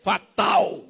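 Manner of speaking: slow, drawn-out robotic readout; mock computer voice announcing fatal error; error message voice. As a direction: read it like a computer error box. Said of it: "um quadradinho falando assim".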